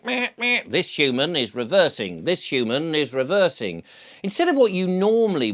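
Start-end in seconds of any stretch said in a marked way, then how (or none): 0.0-3.8 reversing warning voice. Retold or imitated. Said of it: "emergency reversing lights and he was going".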